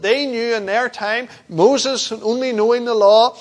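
emphatic, driving sermon delivery; forceful preaching. Real, not acted. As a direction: press the point home from the pulpit.

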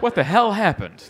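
puzzled "What the hell happened?" with a falling end; incredulous. Pretend. Comic imagining his future self, baffled question. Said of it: "I would be like".

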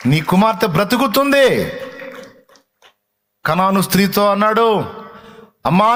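high, loud preaching as Jesus; full-force preaching. Acted. Preacher voices Jesus comforting the weeping woman, fervent. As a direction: proclaim it with rising power.

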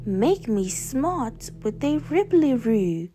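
lilting magic chant; lightly theatrical spell-casting; spell incantation. A narrator's reading. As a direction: draw out the magic words in a sing-song.

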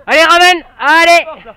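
loud command to fetch; calling a dog. Real, not acted. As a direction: shout it across the field. Calling dog to retrieve game.

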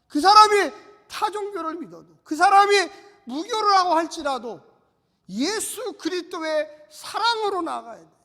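loud, pounding pulpit cry; fiery preaching. Acted. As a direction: preach it out to the congregation. Preaching at full force. (힘차게 외치는 설교)

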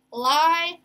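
"Library" with each syllable held apart. Shown as a demonstration. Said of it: "we hear a lie as our first syllable".

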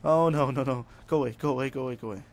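loud "oh no", then rapid shooing; alarmed shooing. Real, not acted. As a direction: shoo it off urgently. Frame rate lag threatens climb.

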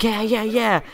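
quick excited agreement; hyped. Retold or imitated. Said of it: "he was, like, hyped".

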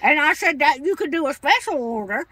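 put-on cranky old lady voice. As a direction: play a stubborn old woman customer. Caller holds an old lady voice.

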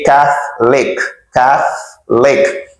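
CATHOLIC broken slowly into CATH, LIC; slow syllables of CATHOLIC for learners; CATH, pause, LIC; repeat-after-me model. Shown as a demonstration. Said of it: "Say Catholic".

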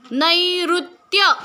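नैऋत्य very slow, ऋ said as रु; slow careful reading. Shown as a demonstration. Teacher slowly sounds out नैऋत्य for students. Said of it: "रु ऋषीचा आहे की नाही".

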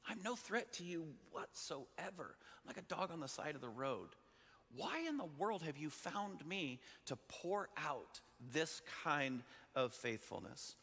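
lightly voiced astonished pleading; humble disbelief. A lowly man asking the king why he was found, mildly incredulous. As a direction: start soft, with pitch lifting in wonder. Acting out Mephibosheth's humble amazement.

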